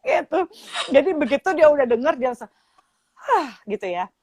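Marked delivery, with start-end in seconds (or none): 3.1-3.6 retold relieved sigh.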